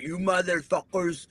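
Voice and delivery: imitated heavy Cuban accent; English with a thick Cuban accent. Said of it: "real thick Cuban accent".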